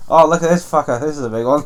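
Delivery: put-on Welsh accent. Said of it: "That your Welsh accent".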